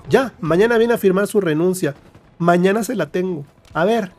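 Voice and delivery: imitated brisk authority; retold bossy orders. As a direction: hand down orders as the boss. Retold boss ordering a resignation.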